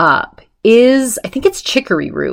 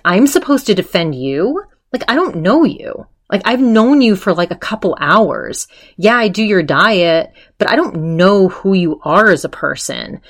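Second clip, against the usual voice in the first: mock indignant; 2 semitones higher than usual. Retold indignant refusal to defend her.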